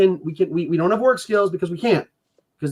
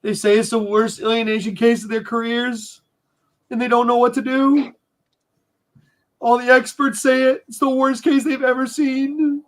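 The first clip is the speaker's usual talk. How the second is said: crying; 3 semitones higher than usual. Real, not acted. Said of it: "Sorry for crying".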